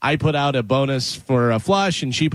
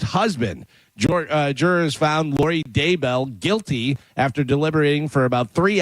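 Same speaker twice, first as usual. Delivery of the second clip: news read. Real, not acted. Reads a news item.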